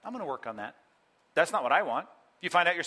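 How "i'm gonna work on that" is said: half-hearted apology. Retold or imitated. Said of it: "I wouldn't want her to say".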